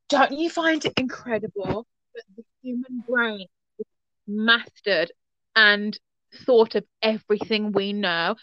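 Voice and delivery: lightly imitated British advert woman; mock wonder, measured British delivery; startled British woman. British woman in a TV advert, imitated startled wonder. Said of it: "British woman who seemed very startled".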